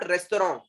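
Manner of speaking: Restaurant as "res-to-ron", nasal ending without T; French-style restaurant. Shown as a demonstration. Teacher giving the answer, Restaurant as "res-to-ron". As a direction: end Restaurant on "ron", no final T. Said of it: "It's what?".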